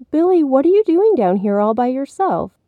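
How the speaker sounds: high, concerned mother's question; surprised mother. A narrator's reading. Mommy finding Billy alone, surprised. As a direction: question a child you've just found. Mother finds son in basement.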